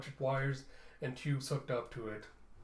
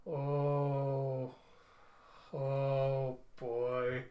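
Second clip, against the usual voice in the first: amazed reaction; much slower than usual. Real, not acted. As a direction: caught off guard, half laughing. Reacting to the story twist.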